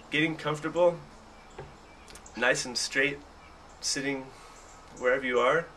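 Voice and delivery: measured meditation guidance with long pauses; unhurried guided meditation voice, leaving room to breathe. Acted. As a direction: lead them gently into breathing, phrase by phrase.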